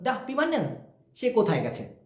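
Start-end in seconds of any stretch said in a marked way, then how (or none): 0.0-0.6 "Dia dah pi mana" said slowly, with "pergi" cut to "pi"; slow shortcut demo. Shown as a demonstration. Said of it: "শর্টকাটে এভাবে হবে". (ধীরে ধীরে শর্টকাটে বলা)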